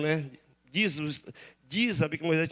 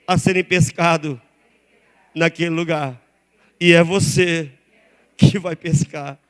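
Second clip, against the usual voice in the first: louder, punched phrases, slow at the end; forceful preaching; 3 semitones lower, 8 dB louder than usual. Acted. Pastor promising the church a big catch, preached loud. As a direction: drive the promise home.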